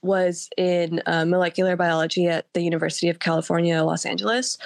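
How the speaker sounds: hoarse voice from a cold; sick voice. Real, not acted. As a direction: talk through a sore throat. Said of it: "I've been sick all week".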